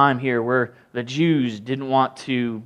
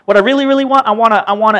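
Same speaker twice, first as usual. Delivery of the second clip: coy queen; 6 semitones higher, 7 dB louder, faster than usual. Retold or imitated. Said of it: "She's like".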